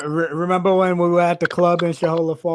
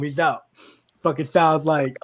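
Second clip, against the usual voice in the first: normal talking voice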